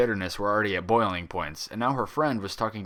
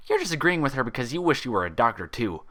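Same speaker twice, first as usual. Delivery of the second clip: high, sulky pout of a bubbly pony; high pouty pony voice; pouting Pinkie Pie; 5 semitones higher, 4 dB louder than usual. A narrator's reading. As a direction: whine it like a pouting kid. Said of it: "Pinkie Pie pouted".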